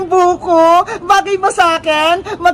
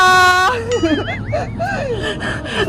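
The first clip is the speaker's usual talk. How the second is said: long trailing laugh; gleeful giggling fit; prank laughter; 3 semitones higher, 4 dB quieter than usual. Acted. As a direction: burst out laughing at the fooled mother.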